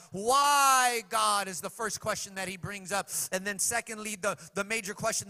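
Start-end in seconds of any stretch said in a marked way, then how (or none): 0.1-1.5 loud anguished shout to God; shouted cry. Retold or imitated. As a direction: hurl the question upward. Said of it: "He cries that out".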